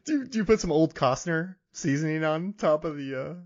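laughing through the question. Real, not acted. Asking while laughing at plot.

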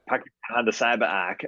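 put-on light Boston accent; park the car, Boston style. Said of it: "use your Boston accent".

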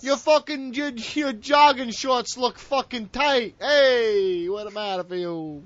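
hammed-up wiseguy threatening a guy in jogging shorts; tough guy mobster. Podcast host mocks his cohost as a Jersey mobster, hammed-up wiseguy menace. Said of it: "This fucking Italian ass motherfucker".

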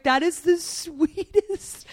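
high, squeaky gush broken by a laugh; mock emotional rave at the sweetest moment; retold tearful gush. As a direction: replay being moved to tears, half-laughing. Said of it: "I was like".

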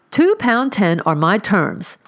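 slow, firm landlady snap; snapped. Acted. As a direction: bite off each word of her terms. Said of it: "snapped Missus Pennycherry".

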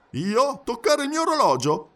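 high, incredulous indignation; aghast high-pitched questioning; astonished protest. A narrator's reading. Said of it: "protestò Passepartout strabiliato".

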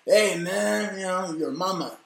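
a hint of Cheech, laid-back and high; Cheech impression. Stoned buddy to his driver, a light Cheech voice. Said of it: "like Cheech when he was driving".

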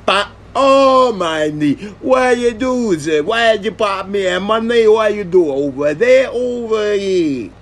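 high whiny pained cry; pained high yelp. Retold or imitated. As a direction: wail it like a hurt man. Retold victim crying in pain.

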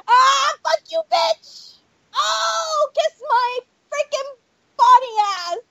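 high furious shouting; angry yelling. Real, not acted. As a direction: yell at the killer in rage. Angry outburst at killer.

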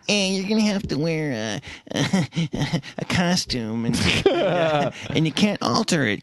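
slow, drawn-out Bush-like voice; George Bush impression. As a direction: do a Dana Carvey Bush as the boss. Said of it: "reminded me of Dana Carvey's George Bush impression".

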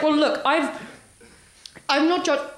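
halting imitated Northern Irish caller; Northern Irish accent. Caller explaining himself, attempted Northern Irish accent. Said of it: "the accent is very difficult to achieve".

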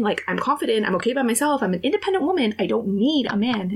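over-insistent, pitch climbing; blubbering self-defence. Retold or imitated. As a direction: protest your independence a bit too much. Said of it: "I was blubbering".

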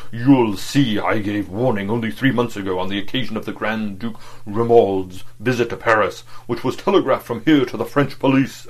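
loud, carrying orator's voice; big clear bass, projecting to a hall; booming oratorical bass. Acted. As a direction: boom it out like a speaker at a rally. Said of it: "clear, oratorical bass".

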